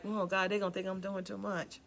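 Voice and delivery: a small, nervous imitated Noah; mock fearful Noah. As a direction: shrink back like a doubter. Noah voiced doubting.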